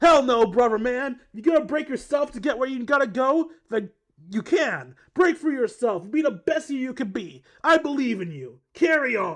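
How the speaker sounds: loud, bad, gruff surfer-dude accent attempt. Performing a short bit before dropping the voice, bad gruff surfer boy accent. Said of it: "horrible attempt at a gruff surfer boy accent".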